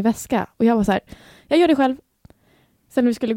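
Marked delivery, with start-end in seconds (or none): 1.5-2.0 curt. Retold or imitated. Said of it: "så här kort i tonen".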